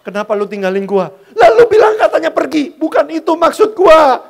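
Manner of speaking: put-on girl scolding him for actually leaving; laughing mock outburst. Girlfriend scolding the boyfriend who left, loud laughing protest. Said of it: "dia bilang".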